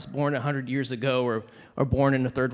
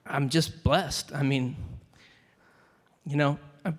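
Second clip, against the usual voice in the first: emotional; 2 semitones higher than usual. Real, not acted. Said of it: "sorry, I'm getting emotional".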